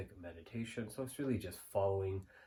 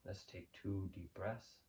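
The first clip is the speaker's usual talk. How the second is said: calm, softer meditation voice with long pauses; guided meditation; 5 dB quieter than usual. Real, not acted. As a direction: guide the listener gently into the present moment, unhurried.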